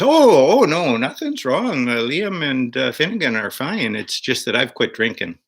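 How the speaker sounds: put-on punchline in a jolly stage-Irish accent; playful Irish pub voice delivering the twist. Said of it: "that's a good Irish accent".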